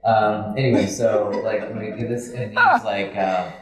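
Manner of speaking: ordinary talk, nothing marked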